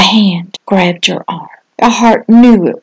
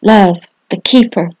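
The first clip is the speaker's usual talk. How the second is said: dramatic devotional reading. Acted. Pastor telling little ones to flee the demon, solemn preaching. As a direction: proclaim it like a sermon story.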